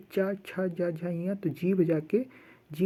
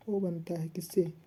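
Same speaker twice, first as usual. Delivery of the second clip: whisper. Real, not acted. Teacher asks class.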